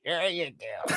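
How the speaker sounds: lightly voiced creepy adult; sinister quiet reply. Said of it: "reply in trope".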